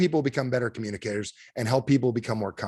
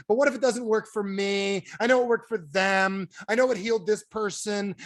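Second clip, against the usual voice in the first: higher, doubting whine with slowed phrases; whiny skeptic; 6 semitones higher than usual. Retold or imitated. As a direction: play the stubborn doubter. Doubtful customer voiced as skeptic.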